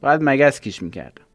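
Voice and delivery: a touch of a cross shopkeeper; scolding shopkeeper. A narrator's reading. Repairman scolding the boy.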